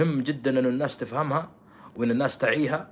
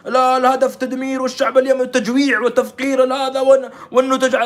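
high, loud mocking parody of the cliché; hammed-up parody of the people who flatten things; mock simplistic claim; 9 semitones higher, 8 dB louder than usual. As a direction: sneer out the stock slogan in a raised voice.

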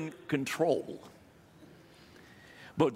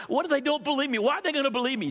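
anxious Moses; 9 semitones higher, much faster than usual. Acted.

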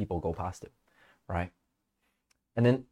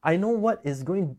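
higher mock self-talk; 9 semitones higher than usual. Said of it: "I can't sit there and going".

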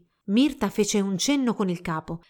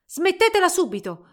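high, loud breathless protest; urgent, raised-pitch demand; gasped demand; 9 semitones higher, 7 dB louder than usual. A narrator's reading. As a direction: cry out while panting from forced dancing. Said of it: "ansimò mentre il suo corpo".

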